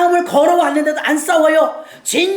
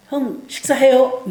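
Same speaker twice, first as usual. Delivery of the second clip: gentle offer; slower than usual. Retold or imitated. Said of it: "돌이킨 거예요".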